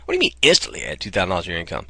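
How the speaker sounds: fast, doubting echo of the headline; incredulous reader. Shown as a demonstration. Visitor reacting to the headline, asking quickly in disbelief. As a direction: question it as if you can't believe it. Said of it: "That gets your attention".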